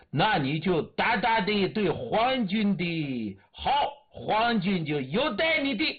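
worked-up, shrill commander. Acted. Japanese commander orders the purge, shrill voice. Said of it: "声音发尖".

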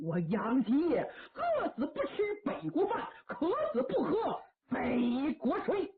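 scornful, laughing through it, slowing at the end; laughing contempt of an old general; proud defiance. Acted. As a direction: spit out a vow with a bitter laugh. Old general defiantly refuses enemy.

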